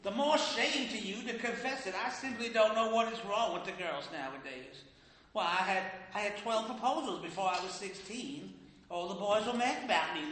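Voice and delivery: a hint of a proud scolding mama; lightly voiced mother boasting of her youth; mother chiding her grown daughter, a touch indignant; scolding Southern mother.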